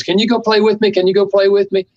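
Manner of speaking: put-on high, eager little kid begging to play; a five-year-old tugging at a parent's sleeve; pleading child. Five-year-old begs busy parent to play, high pleading child voice. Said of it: "the five-year-old says".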